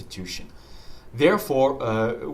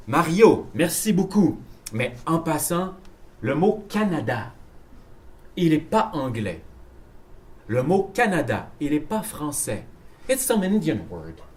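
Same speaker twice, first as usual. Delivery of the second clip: lightly acted teacher giving feedback; teacher's correction; 2 semitones higher than usual. French teacher answering a student's taped homework, measured correction. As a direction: correct a student in deliberate, pause-broken French. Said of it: "And then I say".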